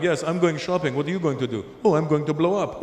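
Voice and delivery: hammed-up Arab accent, casual chat; mock Arab accent. Media-stereotype men chatting about plans, mock Arab accent. Imagined Arabs as media shows them.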